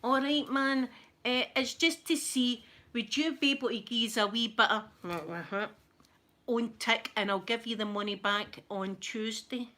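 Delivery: wheedling on phone. Retold or imitated. Woman on the phone begging a dealer, coaxing. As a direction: sweet-talk a wee loan on tick. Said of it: "she gets on her phone and she went".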